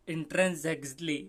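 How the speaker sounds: "intrinsically" sounded out as in-tren-zeks-lee; demonstrated pronunciation. Shown as a demonstration. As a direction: say "intrinsically" as "in-tren-ZEK-slee". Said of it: "इसका सही pronunciation".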